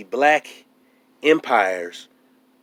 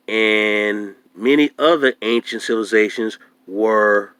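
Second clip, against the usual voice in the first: reading aloud. Shown as a demonstration. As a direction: read it out slowly, letter by letter. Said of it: "here he goes on, talks about".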